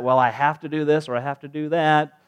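mildly put-upon complaint; kinda upset. Acted. Believer resenting religious duty, kinda upset. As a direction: grumble it with a touch of frustration. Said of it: "starting to get kinda upset".

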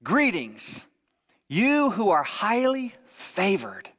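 mock Scottish accent, slow and stately; Sean Connery. Angel Gabriel addressing Mary, mock Scottish accent. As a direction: draw out a grand greeting in a lightly put-on Scottish accent. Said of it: "Sean O'Connery".

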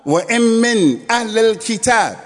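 fast chanted Arabic verse recitation; Quranic recitation. Acted. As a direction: recite the verse in rapid cantillation.

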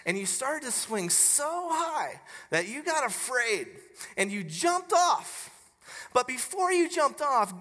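a hint of a child posing a big question; lightly voiced little girl. Acting out young daughter's hypothetical question.

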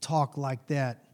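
low, slow, quiet stern warning; stern grandma warning. Retold or imitated. Grandma scolding the boy for cussing at the table, low and slow. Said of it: "and she says".

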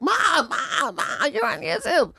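imitating her kid calling. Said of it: "Love called me like".

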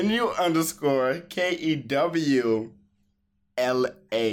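slow, deliberately cool spelling; trying to sound cool. Acted. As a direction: spell it out like you're too cool. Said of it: "you try to be cool".

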